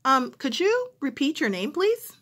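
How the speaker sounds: a caller who didn't catch the name. Retold or imitated. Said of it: "the person who's calling".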